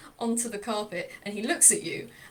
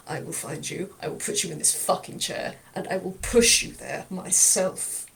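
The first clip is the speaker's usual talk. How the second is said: gruff threat; 4 semitones lower than usual. Acted. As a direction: swear it to him, menacingly. Lau's long threat to Chifley.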